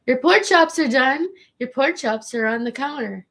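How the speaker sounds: high, slow, fed-up pork chops refrain; exasperated high server voice. Shown as a demonstration. Waitress mocking her own repeated line, high and fed up. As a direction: sing it out like a sick-of-it waitress. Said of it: "I can't wait till the day I don't say that anymore".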